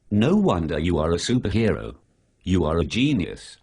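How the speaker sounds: mock praise, lightly sarcastic; dry fake compliment; faintly sarcastic admiration, deadpan. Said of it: "I was being sarcastic".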